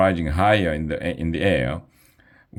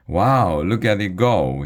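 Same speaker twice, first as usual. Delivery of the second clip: loud, amazed call; excited shout; 3 semitones higher, 3 dB louder than usual. Acted. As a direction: shout it out in wonder. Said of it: "shouted Ryan".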